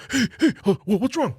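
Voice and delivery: high, stammering mock concern; put-on startled worry, tripping over the question; imitating alarmed coworker. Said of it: "how that fool fucking asked me".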